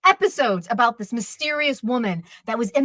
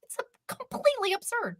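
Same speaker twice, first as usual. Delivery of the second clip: fired up; 9 semitones higher, 7 dB quieter than usual. Real, not acted. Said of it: "fired up about this one".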